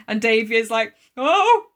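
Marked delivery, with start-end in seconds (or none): 1.2-1.6 high, loud, slow wail; hammed-up crying with laughter in it; mock sobbing. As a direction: wail like a bawling boy. Voices Davy bursting into tears.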